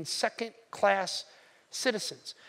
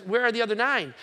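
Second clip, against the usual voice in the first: louder, asking the crowd in disbelief; Jesus calling out, baffled; 3 semitones higher, 6 dB louder than usual. Acted. Jesus asks the healed man where the others went, baffled and louder. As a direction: call out for the missing nine.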